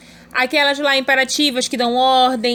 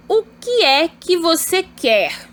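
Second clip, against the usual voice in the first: slow, raised "O que é que você quer?"; question intonation; 4 semitones higher, slower than usual. Shown as a demonstration. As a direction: ask "O que é que você quer?" slowly with marked interrogative tune. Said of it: "Olha a entonação, aluno". (entonação interrogativa em "O que é que você quer?")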